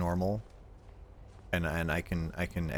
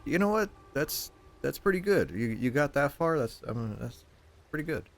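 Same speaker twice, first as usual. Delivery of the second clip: much higher, mock-proud praise; mock impressed; 8 semitones higher than usual. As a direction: gush like a patronizing cheerleader. His mock-impressed answer to dad.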